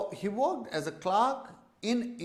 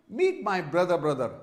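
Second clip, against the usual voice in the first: mock awkward introduction; 3 dB louder than usual. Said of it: "it is like".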